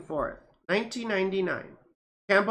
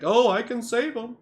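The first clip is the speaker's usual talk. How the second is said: eager rescuer; 5 semitones higher, 5 dB louder than usual. Acted. Acted would-be rescuer quote.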